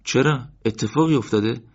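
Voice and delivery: a touch of rising concern. Acted. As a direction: ask what happened, alarmed. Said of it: "تعجب مرتضی بیشتر شد".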